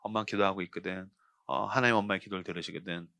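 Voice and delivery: soft, low, gentle mother's voice; tender mother. Retold or imitated. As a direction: soothe him like a praying mother. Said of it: "우리 엄마 늘 그랬어요". (훨씬 부드럽고 조용한 어머니 목소리)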